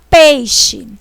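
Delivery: "peixe" with the E said stronger, the I weaker; stressed vowel shown. Shown as a demonstration. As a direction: lean on the E in "peixe", let the I fade. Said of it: "Eu falei o E com mais força". ("peixe" com o E mais forte e o I fraco)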